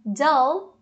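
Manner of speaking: "dull" with an open UH, close to DAL; distinct vowel. Shown as a demonstration. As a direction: say "dull" slowly to show its vowel. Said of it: "elas têm uma vogal diferente". ("dull" com vogal aberta, DÂL)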